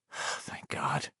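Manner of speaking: softly breathed relief; breathy relief. A narrator's reading. Richie relieved the monster is dead, whispered thanks. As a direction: sigh it out.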